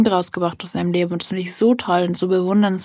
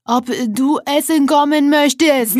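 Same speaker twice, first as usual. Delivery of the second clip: slow, louder, lightly voiced repeating man; imitating the caller; 6 semitones higher, 5 dB louder, slower than usual. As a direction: spell it out slowly to someone not listening. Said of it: "wiederholt er das nochmal". (langsam und lauter wiederholt, leicht nachgemacht)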